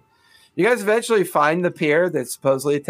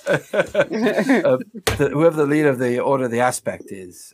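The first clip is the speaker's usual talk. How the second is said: busy dry character. Acted. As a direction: play a busy schemer addressing a dear. Game master plays the same character.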